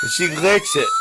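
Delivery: tiny high voice for the dog. Real, not acted. Owner cooing about his dog in squeaky baby talk. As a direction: coo it like talking to a puppy.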